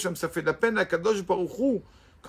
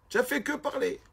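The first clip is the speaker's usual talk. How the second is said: raised pitch but a step down from the squeak, rising at the end; milder mock; 10 semitones higher than usual. Rabbi repeats his jibe to the student, milder and high. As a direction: repeat the mockery, less extreme.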